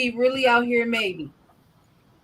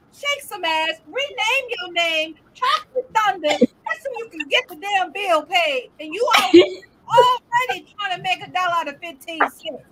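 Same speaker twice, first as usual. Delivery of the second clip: higher-pitched mock rant; hammed-up self-scolding; scolding herself; 6 semitones higher than usual. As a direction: keep berating yourself over the bill. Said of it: "Who is she screaming at".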